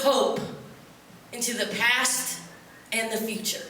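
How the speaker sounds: slow, grand recital of a lofty motto; mock poetic declamation. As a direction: intone it like a solemn poem, tongue in cheek.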